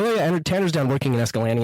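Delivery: Escalante as "es-ka-LAN-ee", said quickly; local pronunciation of Escalante. Retold or imitated. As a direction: rattle it off with Escalante ending "-lanny". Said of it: "it'll, like, rub off on me".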